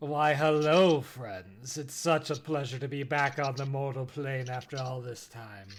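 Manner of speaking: smooth, seductive, sultry tone. Voicing a bony winged character greeting friends, sultry voice. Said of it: "lets out a you know sultry voice".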